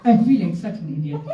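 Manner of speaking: talking through real laughter; embarrassed laughter. Real, not acted. Confessing to the audience feeling like an idiot, laughing. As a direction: laugh at your own foolishness as you speak. Laughs at own past foolishness.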